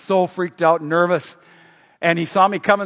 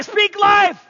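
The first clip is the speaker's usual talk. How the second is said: full shout; 13 semitones higher, 5 dB louder than usual. Retold or imitated. Officer drilling the kids, full shout. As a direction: bellow it high. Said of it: "And he say".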